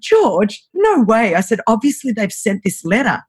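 mildly indignant retold denial; defensive. Sister telling her brother the letter is wrong, defensive. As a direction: push back in mock disbelief. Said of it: "really defensive".

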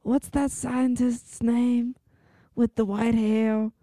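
lightly voiced old woman, very slow; a hint of an old grandma, drawn out slowly; old woman impression. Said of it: "Why are you talking like that?".

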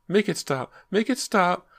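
high, loud terrified shriek; panicked screaming. A narrator's reading. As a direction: scream it over and over. Bleeding girl screaming in panic.

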